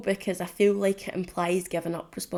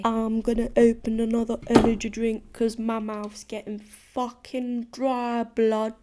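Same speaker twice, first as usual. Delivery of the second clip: put-on slipped London accent; 3 semitones higher than usual. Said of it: "Since I just did that accent".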